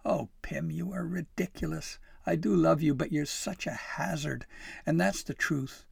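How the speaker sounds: high, fond teasing; lively, loving exasperation; amused. A narrator's reading. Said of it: "She laughed".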